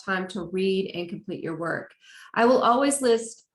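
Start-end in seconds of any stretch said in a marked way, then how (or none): 2.3-3.4 words stretched by a yawn. Real, not acted. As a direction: talk through a yawn. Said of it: "sorry, I don't know why I'm yawning".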